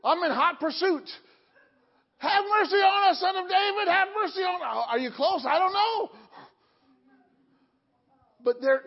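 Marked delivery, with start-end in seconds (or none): 2.2-4.9 pleading call, raised high; crying out. Acted. Blind men crying out to Jesus, a pleading call. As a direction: cry out for mercy after Jesus.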